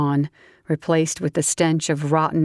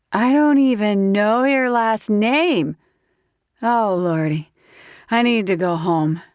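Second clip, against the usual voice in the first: higher, louder startled belle; flustered tipsy woman; 6 semitones higher, 3 dB louder than usual. Acted. Grace shocked.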